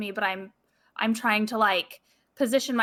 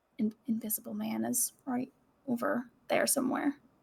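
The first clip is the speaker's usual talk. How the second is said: soft, hushed whisper; 8 dB quieter than usual. Warning the group in character that someone is close by: whispering. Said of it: "and then I just kind of whisper to them".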